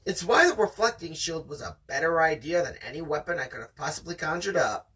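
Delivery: steady read-aloud storytelling voice; story narration. Acted. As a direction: read it like the audiobook. Reading the novel aloud.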